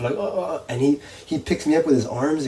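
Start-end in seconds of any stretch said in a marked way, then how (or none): 0.1-0.6 high imitated wordless groan; trying to talk. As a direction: mimic failing to get words out. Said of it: "I'm trying to talk".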